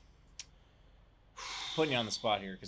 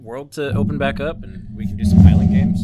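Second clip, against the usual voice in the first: much louder mock Scottish hype question; Scottish accent, hyping up the island games; 4 semitones higher, 18 dB louder than usual. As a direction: roar it in a hammed-up Scottish voice. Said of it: "Tell me as a Scotsman".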